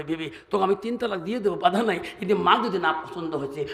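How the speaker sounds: calm wise son. Acted. Wise son answers calmly.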